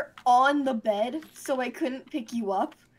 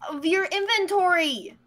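yelling; 5 semitones higher than usual. Real, not acted. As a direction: snap it out, frustrated. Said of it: "why are you yelling at me?".

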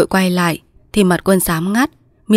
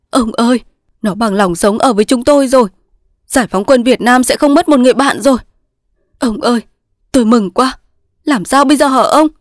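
overjoyed; 5 semitones higher, 3 dB louder than usual. A narrator's reading. Overjoyed that his friend lives.

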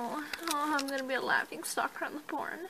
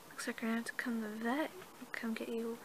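whisper; 6 dB quieter, faster than usual. Acted. Soothing injured horse.

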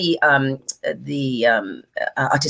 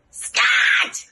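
whispered Scott demo; 6 semitones higher than usual. Shown as a demonstration. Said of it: "Just go".

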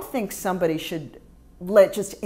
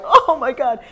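loud, higher, acted-out "moved by a poem" outburst; overcome with emotion; 6 semitones higher, 9 dB louder than usual. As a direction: act out being overwhelmed by a poem. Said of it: "get kind of emotional over certain poems".

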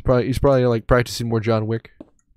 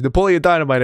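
Napoleon Dynamite impression; 5 semitones higher, 5 dB louder than usual. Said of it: "That's my impression".

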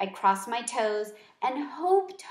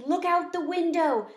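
higher, eager little voice, OUT lifted; excited squeak; 7 semitones higher than usual. Acted. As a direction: urge them to look, bright and eager. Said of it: "I squeaked excitedly".

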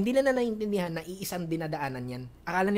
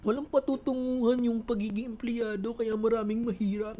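higher, insistent retort; mock arguing; 6 semitones higher than usual. Debating parents on employees, mock insistent. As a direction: hammer the point at them. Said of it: "Nakikipagtalo ko".

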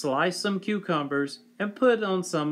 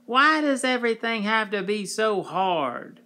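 monster voice; 7 semitones higher than usual. A narrator's reading. Monster whining about the hard day.

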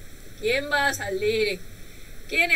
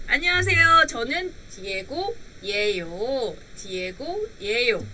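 playing Diego; faster than usual. Shown as a demonstration. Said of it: "Así va a hablar".

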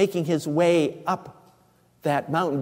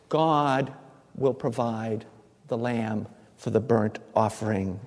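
softer, calm fatherly assurance to his son; calm reassurance; 5 semitones lower, 5 dB quieter than usual. Acted. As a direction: settle the words gently for Isaac. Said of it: "Abraham says very calmly".

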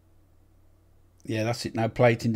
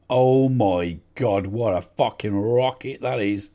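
slow, louder amazed outburst; 4 dB louder, slower than usual. Real, not acted. Manager reacts to a thunderous goal, amazed. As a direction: marvel at the strike.

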